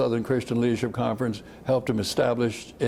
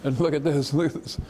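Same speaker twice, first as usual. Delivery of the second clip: higher, pleading to be noticed; trying to get the big men to look; mock eager kid calling for attention; eager showing off; 5 semitones higher than usual. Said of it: "pick the gun up and say".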